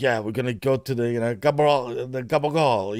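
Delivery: a hint of a New York gangster; Mike Chioda. Imitating a New York wise-guy referee to co-host, lightly voiced gangster. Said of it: "he's got a deep voice too".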